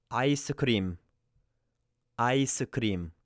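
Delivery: ice cream with a quick flapped R in the middle. Shown as a demonstration. Teacher shows the middle R as a quick flap. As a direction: tap the R lightly in ice cream. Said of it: "a very quick R, R sound".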